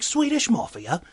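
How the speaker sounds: high, slow incredulous repeat; disbelieving echo. Retold or imitated. Bartender echoes Gordon's answer in disbelief. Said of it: "And I'm like".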